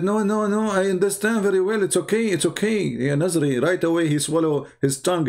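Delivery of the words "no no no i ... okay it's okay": mock flustered student. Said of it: "he said".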